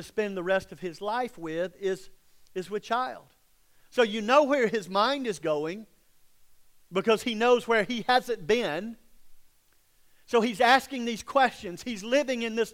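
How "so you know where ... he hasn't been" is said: ordinary talk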